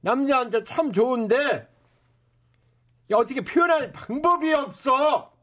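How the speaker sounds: brash hawker's sales pitch; snake oil seller. Acted. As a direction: talk up the miracle tonic.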